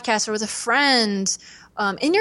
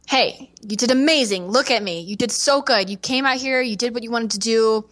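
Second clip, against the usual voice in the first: mom comforting; 4 semitones higher than usual. Retold or imitated. Mom comforting after show.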